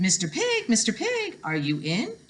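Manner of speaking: sing-song call to the pig; calling at the door. Acted. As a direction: call politely through the door. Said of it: "I said".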